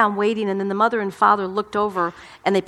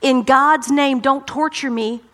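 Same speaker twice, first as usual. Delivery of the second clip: mock shout; 3 semitones higher, 3 dB louder, slower than usual. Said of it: "he shouted at the top of his voice".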